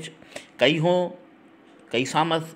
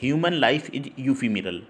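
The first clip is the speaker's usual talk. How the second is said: slow example sentence; much slower than usual. Shown as a demonstration. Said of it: "ये important word है".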